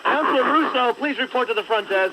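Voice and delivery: PA system announcement; flat echoey pa page. Pretend. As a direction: page it over the loudspeaker. Mock PA announcement.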